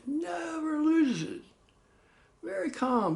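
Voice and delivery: normal talking voice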